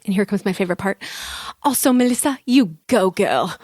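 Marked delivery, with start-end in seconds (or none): 1.6-3.6 put-on cheeky English-accent "you go, girl"; put-on English accent, playful; light English accent. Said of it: "read these in an English accent".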